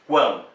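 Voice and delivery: teacher repeats the nasal sound; nasal demo. Shown as a demonstration. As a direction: hit the nasal ão in quão. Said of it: "O som está produzido também pelo nariz".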